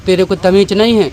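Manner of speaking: a hint of the doctor shouting him down; retold doctor yelling. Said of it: "हमसे चिल्ला के doctor साहब बोले".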